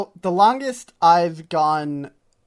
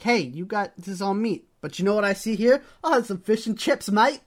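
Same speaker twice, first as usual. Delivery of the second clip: higher-pitched, badly faked English accent; attempted English accent; 4 semitones higher than usual. Co-host voicing a menu reader, badly faked English accent. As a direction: slip into a dubious English accent. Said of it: "when she tries to do her English accent".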